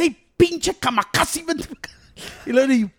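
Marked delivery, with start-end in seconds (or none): 0.0-1.9 sing-song movie line. Retold or imitated. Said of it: "Y le dice".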